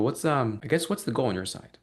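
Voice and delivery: halting "What's, um" before the question, as if unsure; casual, unsure-sounding ask; deliberately hesitant. Shown as a demonstration. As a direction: fake a little searching pause before "goal". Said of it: "almost hesitate on my words on purpose".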